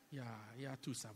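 "iya tusa" said the Zulu way, low and soft; Zulu word. Shown as a demonstration. Preacher repeating the Zulu word for scary. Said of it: "How do you say it in Zulu?".

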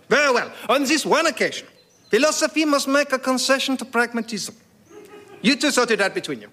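high, pompous French pronouncement; French accent. Acted. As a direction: concede with lofty Gallic pomp. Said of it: "in outrageous French accent".

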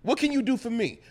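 high, loud pimp voice, laughing; mock pimp shout. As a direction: yell it like a cocky pimp. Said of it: "I'm gonna go on some pimp shit".

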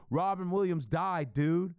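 slow, drawn-out casual dude voice; imitating Twitter dude. Twitter stranger breaking the news, slow casual dude voice. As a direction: lazily drag out each word. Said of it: "That's how he said it".

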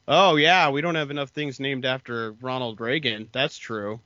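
mock-agreeing sarcasm, punched opening; sarcastic. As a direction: retell it with a sarcastic "oh yeah". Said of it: "like, all sarcastic".

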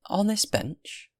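high, loud, drawn-out surprised question; surprised old woman. A narrator's reading. Good woman to man on stone bench, astonished. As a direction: pitch leaps up in slow disbelief.

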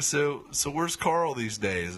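a hint of nosy interest; mild mock curiosity; curious question. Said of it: "he's like".

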